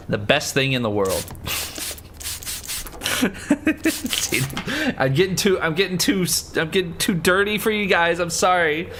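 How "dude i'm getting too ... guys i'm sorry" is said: high character voice. Acted. Voicing character in game.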